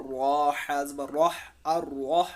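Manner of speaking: रह with a doubled, stressed r. Shown as a demonstration. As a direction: say "अर रह", holding the r twice. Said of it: "रा के ऊपर तशदीद है".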